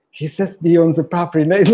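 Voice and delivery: the penny drops mid-sentence; rising alarm. Retold or imitated. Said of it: "I was walking away and like".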